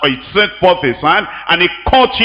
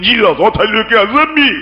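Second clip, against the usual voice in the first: mock shouting; 4 semitones higher, faster than usual. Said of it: "shouting on Jesus".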